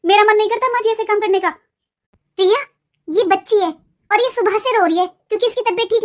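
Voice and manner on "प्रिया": long drawn-out call of the name, rising at the end. Acted. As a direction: stretch Priya out slowly to call her from another room. Calling out to Priya. (बहू को ज़ोर से पुकारते हुए, प्रिया को खींचकर लंबा बोलना)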